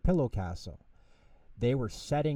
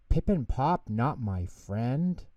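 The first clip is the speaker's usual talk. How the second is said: sadly; slower than usual. Acted. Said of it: "Treelo said sadly".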